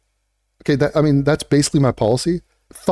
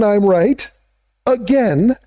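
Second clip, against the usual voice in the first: high singsong; 5 semitones higher, slower than usual. Shown as a demonstration. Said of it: "Did you hear how I said that?".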